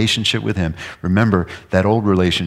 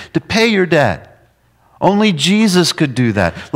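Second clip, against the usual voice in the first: loud, much higher preaching; preaching at full force; 7 semitones higher, 6 dB louder than usual. Acted. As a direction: preach it out with fervor.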